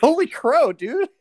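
high loud mock shock; hammed-up gasp. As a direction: ham up the gasp. Repeating gasp, hamming it up.

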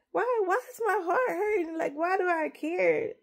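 fighting off crying as the hurt comes out; real tearful break on the questions; holding back tears. Real, not acted. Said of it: "I'm not gonna cry".

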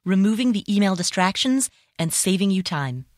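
measured sponsor read, slightly lifted pitch. Acted. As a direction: read the sponsor copy cleanly. Reads a sponsor message.

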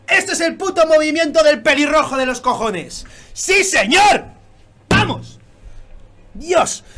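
real fan cheer; excited yell. Real, not acted. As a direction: celebrate it out loud. Hype reaction to manga reveal.

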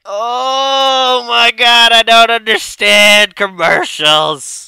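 high, loud laughing-crying wail; cry-laugh it out slowly; laughing in disbelief. Real, not acted.

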